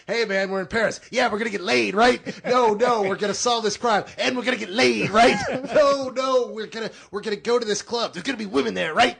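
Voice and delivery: loud, high excitable buddy voice; hammy high-pitched party guy; Chris Tucker impression. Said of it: "Chris Tucker was playing Corey with a high voice".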